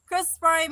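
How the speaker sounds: "Springs" as a quick "Sprahn", ending softened; hometown pronunciation. Shown as a demonstration. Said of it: "we say Crystal Springs".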